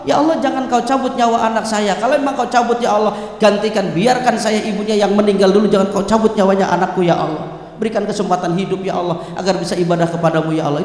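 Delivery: low, earnest plea to God; parent's pleading prayer. Acted. Parent praying for a sick child's life, pleading low. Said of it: "doanya orang tua".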